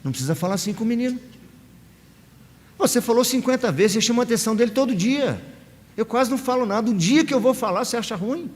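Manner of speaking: rapid indignant complaint, voice dropping; wife's protest. Retold or imitated. Wife stepping in front of her husband, a fast mock protest. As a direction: rush out her objection, half-hearted mock. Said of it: "ela entra na frente do marido e diz assim".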